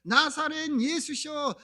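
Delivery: high, slow, drawn-out pleading call; imitated desperate cry. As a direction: act out a beggar crying out for mercy. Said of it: "얼마나 간절했는지 그냥 소리를 치는 거예요". (간절하게 외치듯 높고 길게)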